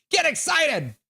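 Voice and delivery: a sudden hype yell after the calm line; excited shout. Shown as a demonstration. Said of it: "So get excited".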